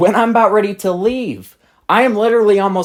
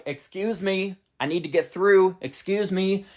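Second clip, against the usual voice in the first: softer, polite excuse me; 7 dB quieter than usual. Retold or imitated. Narrator asking kids to let her cart through, soft and polite. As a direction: ask quietly to get past them. Trying to get past noisy kids.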